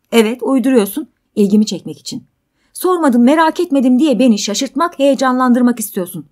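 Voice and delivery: loud, high, insistent tirade; agitated quarrelling; heated accusation. Acted. Man accuses her of making it up.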